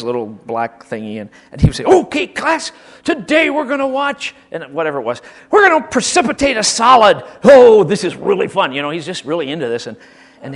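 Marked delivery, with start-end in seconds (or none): 1.8-4.3 high, loud eager teacher voice; excited chemistry teacher. Retold or imitated. Teacher announcing the experiment to class, high and eager. 5.5-8.7 loud, high, thrilled teacher; gleeful teacher. Retold or imitated. Teacher thrilled about the experiment, loud and gleeful. Teacher voiced in school story.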